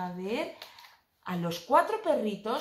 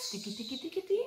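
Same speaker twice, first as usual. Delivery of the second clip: quiet; 6 dB quieter, much faster than usual. Pretend. Putting puppies to sleep.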